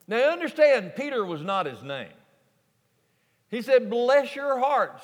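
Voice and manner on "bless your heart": slow, higher Texas "Bless your heart" with "Bless" stressed. Shown as a demonstration. Jesus speaks to Simon, Texas style, slow and higher. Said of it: "New Revised Texas translation".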